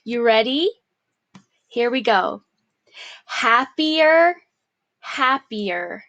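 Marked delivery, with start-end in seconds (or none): 3.2-4.4 higher and louder opening call of the word; bold first call. Shown as a demonstration. Teacher calling out the dictation word loudly. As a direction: ring it out to start the drill. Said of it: "dictation drill, word repeated".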